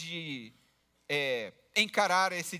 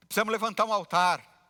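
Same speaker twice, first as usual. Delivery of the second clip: mildly raised voice, imitating church jargon on a call; hammed-up pious phone talk, a bit loud; loud phone talker; 5 dB louder than usual. Preacher imitates a believer on his phone at the bus stop, mock loud. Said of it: "ele conversa alto ao celular".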